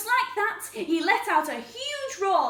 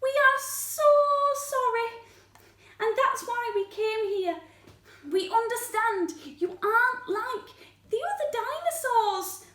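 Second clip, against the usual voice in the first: higher, mildly contrite voice; apologetic; 6 semitones higher than usual. Acted. Singers came to apologise to Spike, mildly contrite higher voice. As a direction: offer an earnest, gentle apology. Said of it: "looked very sorrily at Spike".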